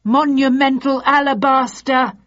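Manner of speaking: high, loud panicked yelp; terrified cry. Acted. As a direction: shriek it in sudden terror. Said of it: "gave out a terrified cry".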